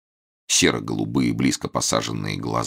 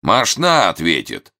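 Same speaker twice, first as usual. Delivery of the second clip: sneering; 5 semitones higher, 5 dB louder, slower than usual. A narrator's reading. Villain sneers back.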